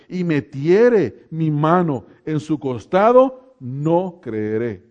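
measured, deliberate Bible reading with weighted phrases; scripture reading. Acted. Preacher reading Thomas's doubt to the congregation, deliberate scripture reading. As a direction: read it out slowly and solemnly.

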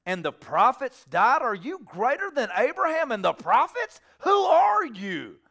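indignant interrogation that climbs in pitch; incredulous challenge. Acted. Acting out challengers of Jesus.

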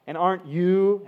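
pointed stress on "aren't you"; emphatic. Retold or imitated. Goliath rounding on the Israelites, emphatic.

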